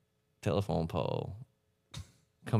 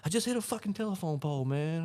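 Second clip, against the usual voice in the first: high, softer retold panting voice; out of breath; 8 semitones higher, 3 dB quieter than usual. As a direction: imitate a buddy calling in winded. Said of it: "sounded like he was out of breath".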